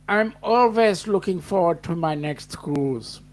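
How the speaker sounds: put-on slipping into a light German accent; lightly put-on German accent. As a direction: answer with a hint of a German accent. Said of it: "it ends up with that German accent".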